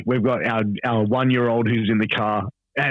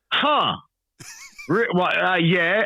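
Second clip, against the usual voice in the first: higher, puzzled stammer; a wife lost for words at the news; baffled wife; 8 semitones higher, much slower than usual. Retold or imitated. Wife hearing her husband is famous, baffled and higher.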